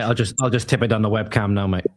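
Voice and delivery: talking while chewing gum; words round a wad of gum. Real, not acted. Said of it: "Have you got chewing gum in your mouth?".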